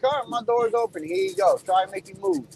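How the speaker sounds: high, mocking dare, voice pushed way up; mocking challenge. Trucker dares another driver, high mock taunt. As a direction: taunt him to take the free shot. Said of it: "And I was like".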